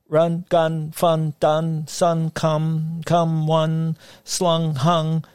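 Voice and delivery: put-on high, punchy boy reeling off words; rapid-fire rhymes. A narrator's reading. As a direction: fire off each rhyme like a kid. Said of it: "fired off a sudden heap of single-sounding rhyme".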